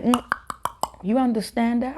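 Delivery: high, mocking clicking voice; mock the kids who teased her; mocking classmates. High school kids teasing the new African girl, high mock voice. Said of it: "They were like".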